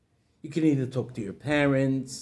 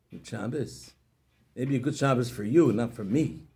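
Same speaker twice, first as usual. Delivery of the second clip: ruined man answering his cheerful friend; gloomy; 4 semitones lower than usual. Acted. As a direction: drag the words out of sadness. Sad man explains his gloom.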